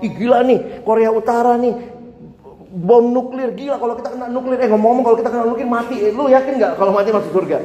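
fast, excited, chatty gossip; casual chat. Retold or imitated. Preacher acting a casual chat with a friend. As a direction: rattle on quickly like friends chatting. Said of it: "Bilang aja".

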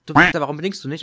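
half-acted road-rage yell, not full force; imitating shouting at a driver who didn't signal; retold yell at a driver. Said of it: "sondern ich schrei mal".

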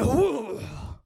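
pained "ooh" sliding down; yelped "ooh" imitating a scream; retold scream. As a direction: let out a mock cry of pain. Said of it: "I screamed so loud".

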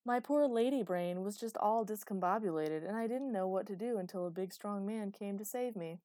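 mock helpless little lady, dripping sarcasm; playing helpless. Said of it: "snippy and sarcastic".

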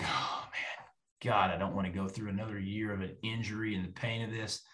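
a fearful thought flashing through the mind; whispered inner thought. Retold or imitated. He quietly dreads another injury, whispering.

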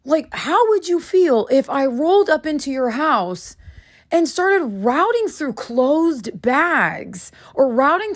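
put-on patiently explaining as if to a small child; retold conscious-parenting talk, walking him through it; gentle-parenting lecture. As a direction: spell it out like a parent to a six-year-old. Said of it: "like I was speaking to my six-year-old".

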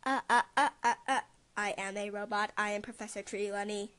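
stiff robot voice. Pretend. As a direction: play a robot announcing itself. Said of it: "She sounds like a robot".

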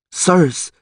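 high-pitched rough-and-ready thief voice; high voice of a wary jailbird; reluctant thief. Acted. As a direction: pipe up as a petty crook. Thief character voice.

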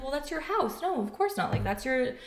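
imitating her friend. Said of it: "And she's like".

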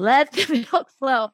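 mock self-soothing, words stretched out; breathing through pain. Mother acting out painful nursing, drawn-out hammed-up mantra.

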